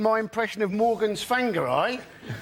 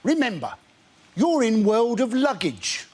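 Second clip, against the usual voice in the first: tannoy announcer. Acted. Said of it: "unlikely things to hear over a tannoy".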